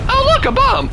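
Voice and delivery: very high, squeaky cartoon voice; high falsetto exclamation, played for laughs; squeaky mock voice. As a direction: pipe it up like a silly cartoon kid. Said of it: "Is that a bomb?".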